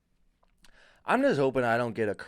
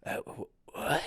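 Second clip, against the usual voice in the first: demon voice; 5 dB quieter, slower than usual. Acted. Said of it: "then he'd be like".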